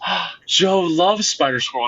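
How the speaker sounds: high, excited mimicry of a delighted woman; acting out someone's delighted surprise; thrilled gasp. Artist's wife's thrilled reaction, acted.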